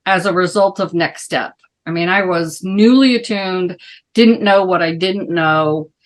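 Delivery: muffled behind a mask; speaking through a face mask; through a plague doctor mask. Real, not acted. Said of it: "Can you hear me okay with the mask?".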